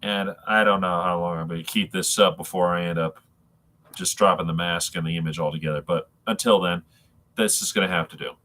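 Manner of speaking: blocked nose from packing; nose packed with gauze. Real, not acted. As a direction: talk through a stuffed-up nose. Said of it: "I still got some packing up my nose".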